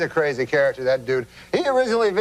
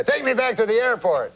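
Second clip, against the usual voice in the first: put-on raised French-Canadian accent, insistent; Jean-Luc; 5 semitones higher than usual. Uncle tells the cabbie to turn back, French-Canadian accent. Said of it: "he's like".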